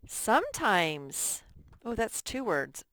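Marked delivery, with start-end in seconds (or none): 0.1-1.4 slow model word. Shown as a demonstration. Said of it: "What's our next word".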